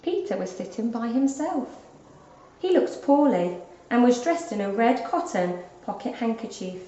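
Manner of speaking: plain reading voice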